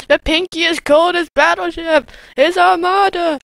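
loud, grand mock proclamation; mock epic shout. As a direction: announce it like a warlord.

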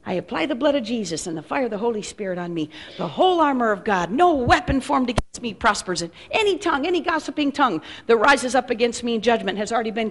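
murmured spiritual-warfare prayer; prayer declaration. Acted.

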